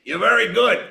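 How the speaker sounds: imitating a cigar-chomping old casting director; big Italian casting director. Casting director giving the young actor blunt advice, lightly imitated. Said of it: "and he goes".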